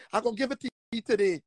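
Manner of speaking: quick low muttered threat. Shown as a demonstration. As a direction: rush it under your breath.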